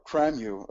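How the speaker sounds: "Cramu", a second garbled try at Cymru; mistaken pronunciation. Shown as a demonstration. Speaker fumbling the tool's name, said "Cramu". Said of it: "I always pronounce this".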